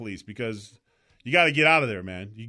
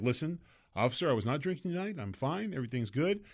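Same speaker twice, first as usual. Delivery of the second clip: put-on drunk trying to sound sober; 7 dB quieter than usual. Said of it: "you'll be like".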